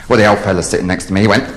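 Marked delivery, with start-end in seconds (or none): 1.5-1.5 calling out. Acted. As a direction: bellow for attention like a rude old man. Old man calls out in joke.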